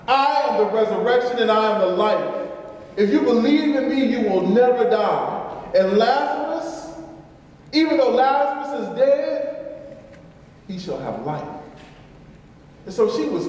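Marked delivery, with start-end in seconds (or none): 0.1-10.0 higher, louder proclamation; Jesus declaring I am the life; proclaiming Jesus. Retold or imitated. Jesus proclaims to the grieving sister, raised and fervent. 10.7-11.5 lower, softer promise; a quiet final promise; soft assurance. Retold or imitated. Jesus assures the sister softly and tenderly.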